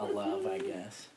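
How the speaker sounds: high, soft exasperated laugh in the words. Real, not acted. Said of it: "That's exasperation".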